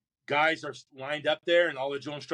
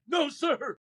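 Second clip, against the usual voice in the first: firm refusal; 12 semitones higher than usual. Retold or imitated. Recruit refusing drill instructor's order.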